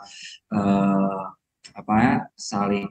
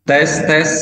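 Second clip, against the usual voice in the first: heavy echo; 5 semitones higher, 6 dB louder, much slower than usual. Real, not acted. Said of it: "Masuk, tapi echo banget ya?".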